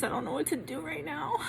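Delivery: near tears, breathless; anxious and close to crying; nervous shaky voice. Real, not acted. Waiting on fan call result.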